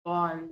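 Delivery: "ball" ending with tongue rolled back deep on the palate. Shown as a demonstration. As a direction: curl the tongue far back to end "ball". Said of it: "just rolling over your tongue".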